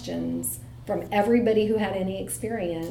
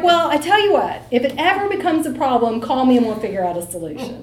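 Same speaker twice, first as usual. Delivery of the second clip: louder, higher, laughing as she bargains; laughing reply; 3 semitones higher, 8 dB louder than usual. Retold or imitated. Mom offers her son a deal, still laughing loudly. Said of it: "And I'm like".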